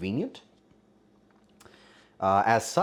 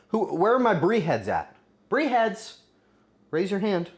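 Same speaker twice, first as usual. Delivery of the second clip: calling out to fans; 6 semitones higher than usual. Real, not acted.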